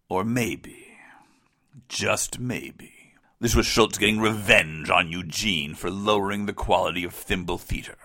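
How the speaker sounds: whispered conspiracy theory; conspiratorial whisper. Acted. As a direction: lean in and whisper the secret.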